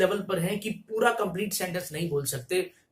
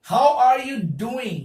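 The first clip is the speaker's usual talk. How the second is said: stretched out slowly and clearly; slow teacher demonstration; slow model phrase; 5 semitones higher, 7 dB louder, much slower than usual. Shown as a demonstration. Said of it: "ये एक अच्छा phrase है".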